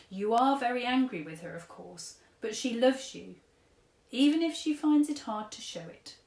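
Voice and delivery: lightly voiced gentle old man giving advice; a hint of an old gent counselling a girl; kindly old tramp. Old tramp advises sad girl, lightly voiced kindly. Mister Stink reassures Chloe.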